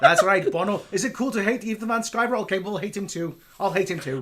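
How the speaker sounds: lightly put-on Irish accent; a hint of Irish rock star; a singer. A singer joining in someone's feud, light Irish accent. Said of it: "do this Irish accent".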